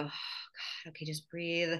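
breathy whispered self-calming; calming herself. Retold or imitated. Mother seeing her daughter's unbrushed hair, whispered self-calming. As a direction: whisper it to yourself to stay calm. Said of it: "And I go".

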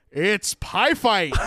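slow, drawn-out announcer imitation; old game sound bite. Recalling a childhood computer game clip, slow mock announcer. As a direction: lightly voice the game's announcer. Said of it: "sound bite of this guy going".

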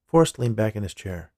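ordinary delivery

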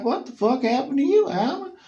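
very high, loud alarmed question; shocked shout. Retold or imitated. Tim finding Alan with a black eye, high shocked shout. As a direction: shout it in disbelief.

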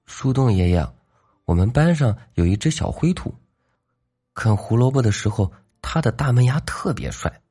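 a shy bunny confiding her crush; little girl rabbit. Acted.

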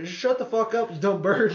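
yelling at bird. Retold or imitated. Tripping guy yelling at the owl to shut up. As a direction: bark it at the bird like a mock tough guy.

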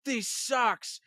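high, hammed-up cartoon vampire; Michael Morbius. Podcaster mimicking how the animated vampire sounded, high mock-dramatic Morbius. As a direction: lament in a put-on high vampire voice. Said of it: "that's how he sounded".

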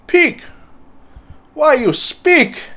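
high, slow and baffled; surprised. Retold or imitated. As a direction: ask the pig in disbelief. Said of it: "I was like".

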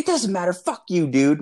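high-pitched imitation of a defiant kid; dismissive thief. Thief brushing off his victim in a retold quarrel, dismissive.

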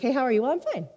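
quick, offhand greeting exchange; casual small talk. Acted. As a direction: toss off an imitated routine hello. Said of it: "is it more than just going like".

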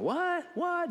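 sharp high startled "What?"; shocked disbelief. Retold or imitated. Disciples stunned by betrayal news, high startled disbelief.

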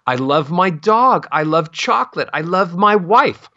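"dog", "chocolate", "wife" lifted high, each sentence climbing; happy ascending melody. Shown as a demonstration. Voice coach shows happy melody, climbing to "dog", "chocolate", "wife". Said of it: "you sound happy".

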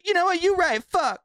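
pumped-up stranger. Retold or imitated. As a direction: hype yourself up, ridiculous and squeaky. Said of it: "then she's like".

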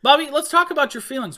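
lightly voiced counsellor; mock therapist. Host teasing cohost like a mock therapist.

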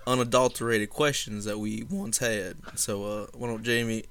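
a hint of a genteel Savannah accent. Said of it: "Say your best Savannah accent".

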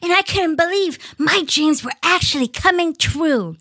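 lightly voiced kid reading diary; pinched voice. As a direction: read it like an excited young girl. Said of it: "I'm gonna do my kid voice".

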